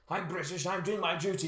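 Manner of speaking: lightly voiced, slightly singsong British agent; a touch of loyal-servant recital; dutiful British spy. Spy loyal to his country, lightly mocked dutiful voice. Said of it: "he's become less and less of a".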